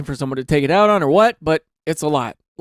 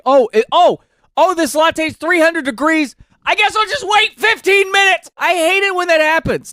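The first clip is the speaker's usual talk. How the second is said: mock burnt customer; 10 semitones higher, 4 dB louder than usual. Vlogger mocking a Starbucks customer waiting on hot latte, high whiny voice. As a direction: play a fussy coffee drinker who burnt their tongue.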